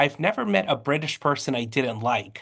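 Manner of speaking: plain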